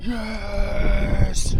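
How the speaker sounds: loud high cheer; cheering shout. Real, not acted. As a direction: whoop it out in triumph. Cheering a landed fish.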